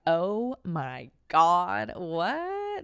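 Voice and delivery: mock shock. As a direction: act out scandalized surprise. Acting out shock at medic call.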